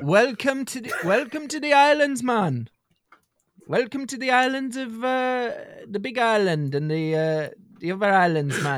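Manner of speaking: badly faked laid-back Hawaiian accent. Shown as a demonstration. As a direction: welcome visitors as a caricature Hawaiian islander. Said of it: "Do your Hawaiian accent?".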